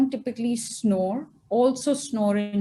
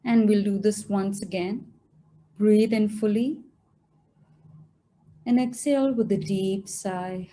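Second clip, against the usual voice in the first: guided meditation; 2 semitones lower than usual. Acted. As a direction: guide them gently into stillness, phrase by phrase.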